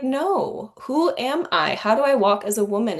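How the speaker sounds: high-pitched, emphatic self-challenge; rallying herself. Retold or imitated. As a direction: rouse yourself with a sharp rise. Rallying her own inner voice.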